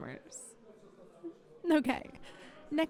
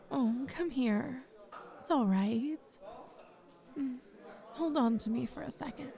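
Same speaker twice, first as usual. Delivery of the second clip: soft, soothing murmur of comfort; tender comforting; 4 dB quieter than usual. Acted. Interviewer hugging an upset applicant, tender comforting. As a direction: console them gently, unhurried.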